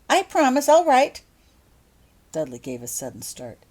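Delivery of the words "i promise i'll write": loud high call to Mum. Acted. Holly calls to her mother getting into the car, loud and high. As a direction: reassure her from across the yard. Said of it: "called out Holly".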